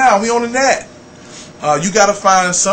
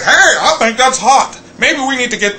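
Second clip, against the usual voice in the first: imitating corporate radio; 9 semitones higher, 5 dB louder than usual. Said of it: "they be like".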